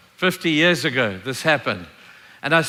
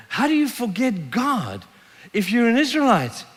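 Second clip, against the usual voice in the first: higher, emphatic disbelief; incredulous reproach; 4 semitones higher than usual. Acted. Reader questioning Israelites who forgot God, incredulous reproach. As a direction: challenge them in amazement, leaning on key words.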